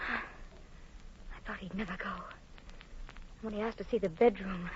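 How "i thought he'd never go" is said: slow, breathless sigh of relief. Acted. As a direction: breathe it out, drained. Relief after husband leaves.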